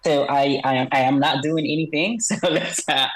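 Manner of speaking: electronically altered voice; disguised deep voice. Real, not acted. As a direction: voice disguised for anonymity. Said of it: "voice is slightly altered".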